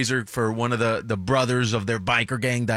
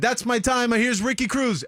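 high, hurried mock comic bailing; panicked handoff; 11 semitones higher than usual. Comic fleeing a biker mid-set, high panicky handoff. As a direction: blurt it out and flee the stage.

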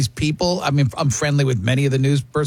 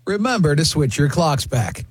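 news anchor voice. Shown as a demonstration.

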